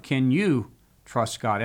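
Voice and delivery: slow, leaning on "you"; stress on you. Shown as a demonstration. Host asking the writer's second question, stress on "you". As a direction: put the weight on "you", slowly. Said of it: "Emphasis on you".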